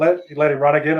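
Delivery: ordinary talk, nothing marked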